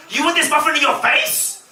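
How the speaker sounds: high, laughing squabble; laughing girl. Retold or imitated. Two girls bickering over the muffin, high and giggly. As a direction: threaten and tease, laughing.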